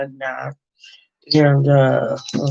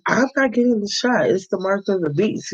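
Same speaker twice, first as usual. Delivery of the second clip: higher-pitched quote of a defiant daughter; mock protest, pitched well up; retold refusal; 6 semitones higher than usual. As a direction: voice her refusal in a raised pitch.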